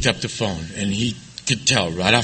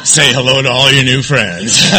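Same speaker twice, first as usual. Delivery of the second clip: louder, crowd-rousing call to the room; shouted welcome; 6 dB louder than usual. Acted. Comic welcomes the audience as new friends, shouting. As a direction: bellow it out to the crowd.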